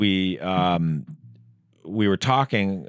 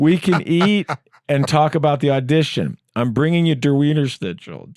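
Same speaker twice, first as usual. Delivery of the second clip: excited; 7 semitones higher, 5 dB louder than usual. Retold or imitated. Retold own text, comic.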